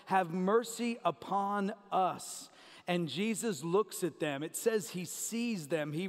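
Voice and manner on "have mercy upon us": slow, drawn-out appeal; imitated plea. Desperate lepers crying to Jesus, slow imitated plea. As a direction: stretch out the plea at normal volume. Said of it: "they cry out to Jesus for help".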